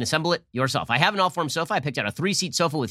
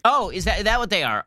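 sarcastic; 6 semitones higher than usual. Real, not acted. Host mocking the congressman's claim, sarcastic and higher. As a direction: scoff at the claim. Sarcastic reply to Nadler clip.

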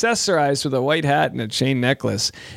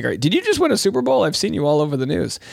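excited kangaroo, fast; faster than usual. Pretend. Kangaroo fan gushing at the Super Bowl winner, fast and excited. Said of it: "The kangaroos like".

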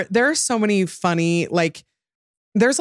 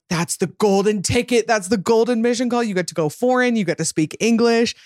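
higher-pitched retold gushing; excited; 5 semitones higher than usual. Everybody reacting to brother's Australia mission call, excited. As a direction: imitate friends thrilled for someone.

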